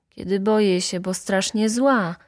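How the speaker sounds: usual speaking voice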